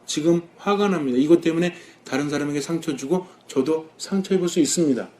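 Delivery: softly offered, humble prayer. Shown as a demonstration. Admitting anger to the Lord, humbly and softly. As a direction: confess it quietly and humbly to God. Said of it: "겸손하게 하느님께 봉헌합니다".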